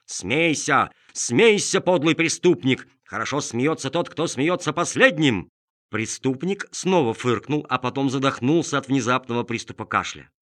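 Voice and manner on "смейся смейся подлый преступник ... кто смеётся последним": loud, high furious shout; indignant shout. Acted. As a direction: yell at the hidden laugher. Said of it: "закричал, весь дрожа от благородного негодования".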